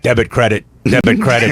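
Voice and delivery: lightly voiced frog accountant; a hint of a cartoon frog doing the books. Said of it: "my impression of a frog accountant".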